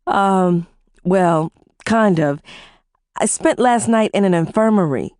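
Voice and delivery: hesitant, slowed stammer. Acted. Wife hesitantly telling her husband the news, stammering. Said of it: "I stammered".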